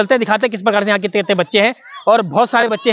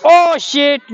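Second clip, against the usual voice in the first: sharp louder outburst; dismayed exclamation; 3 semitones higher, 4 dB louder than usual. Real, not acted. Host seeing a child's flip fail, dismayed. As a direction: groan at the miss.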